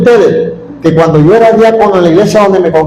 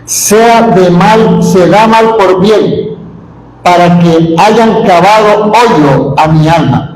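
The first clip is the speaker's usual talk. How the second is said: slow, deliberate Bible reading; slow solemn reading; solemn scripture reading; slower than usual. Acted. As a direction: read the prophet's words with weight.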